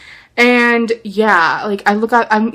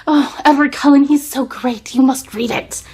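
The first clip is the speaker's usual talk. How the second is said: higher, breathy fangirl gush, pushing the book; gushing fan friend; 5 semitones higher than usual. Retold or imitated. Friend urges her to read Twilight, gushing mock fangirl. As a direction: imitate a friend swooning over Edward. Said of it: "She's like".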